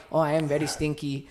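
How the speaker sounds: light mock Indian accent; a hint of a put-on Indian accent. Shown as a demonstration. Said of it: "if you do the Indian accent".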